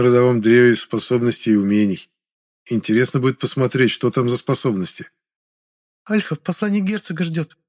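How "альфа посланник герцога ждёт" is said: Lada. Acted. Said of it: "напомнила мне Лада".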